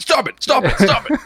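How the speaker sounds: high, loud, laughing protest; a hammed-up groan at the puns; laughing mock plea. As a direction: beg them to stop through laughter. Mock pleading to stop puns.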